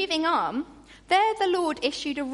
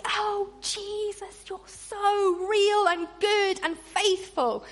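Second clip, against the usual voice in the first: gushing worship; 4 semitones higher, slower than usual. Retold or imitated. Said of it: "you're like".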